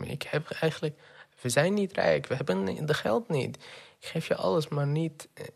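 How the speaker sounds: imitating his mother begging through tears, half-hearted; mother's pleading cry. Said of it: "begint te huilen en te schreeuwen".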